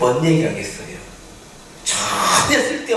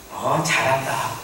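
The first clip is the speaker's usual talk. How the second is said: mock praise; 4 dB quieter, slower than usual. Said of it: "이건 부모의 말이 아니죠".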